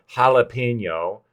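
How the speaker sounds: Spanish-accented jalapeno, ha-la-pe-nyo. Shown as a demonstration. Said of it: "putting on, like, the Spanish accent".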